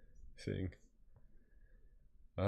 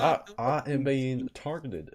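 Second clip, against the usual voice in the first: laughing complaint; 6 semitones higher, 6 dB louder than usual. Real, not acted. Mock complaint while laughing.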